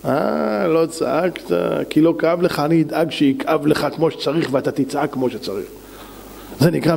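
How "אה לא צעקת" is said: knowing realisation. Acted. Lower realisation after the accusation.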